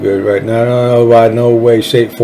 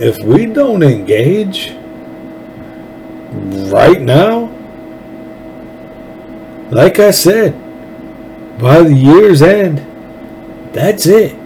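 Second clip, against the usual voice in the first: higher, slow, earnest warning with the voice catching a little; a little emotional; 4 semitones higher, slower than usual. Real, not acted. Rallying Texans to vote, slow and a little emotional. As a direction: plead slowly as feeling rises. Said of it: "I'm starting to get a little emotional".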